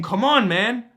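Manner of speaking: inner voice pushing. Retold or imitated. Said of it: "that spiritual higher self that's saying".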